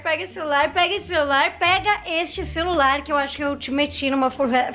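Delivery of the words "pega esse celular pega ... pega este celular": urgent begging. Real, not acted. Begging friend to take phone.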